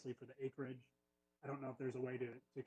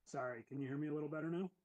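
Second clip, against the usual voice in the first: closer to the microphone and louder; 3 semitones higher, 6 dB louder, faster than usual. Real, not acted. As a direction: lean in and speak up. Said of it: "Yep, that's better".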